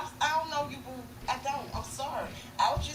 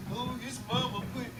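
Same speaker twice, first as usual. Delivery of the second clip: lightly whiny imitation of a crying man, slowed; hammed-up sniffly complaint, half-hearted; mock crying rapper. Mother mocking the young rapper's crying video, whiny mock sob. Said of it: "crying yesterday about".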